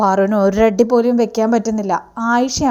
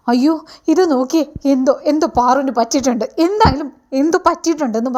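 panicked cry; 3 semitones higher than usual. Retold or imitated. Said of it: "അമ്മ അലറി വിളിച്ചുകൊണ്ട് വരികയാണ്".

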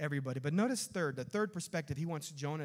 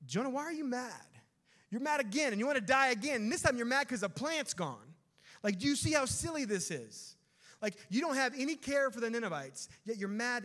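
louder and higher, pressing Jonah with disbelief; exasperated rebuke; 7 semitones higher, 4 dB louder than usual. Acted. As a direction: rebuke him like a fed-up father, voice raised. Preacher voices exasperated God to Jonah.

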